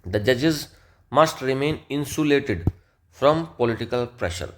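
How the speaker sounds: slow, evenly spaced reading; slow dictation. Shown as a demonstration. Teacher reading the judges example to students, slowly and deliberately. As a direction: let every word land for the learners.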